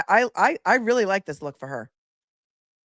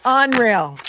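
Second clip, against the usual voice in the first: louder Unreal in a New York twang; mock New York accent; 5 semitones higher, 6 dB louder than usual. Vlogger echoes the clerk, mock New York accent. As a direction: echo the clip's New Yorker, lightly. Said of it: "Totally a New Yorker".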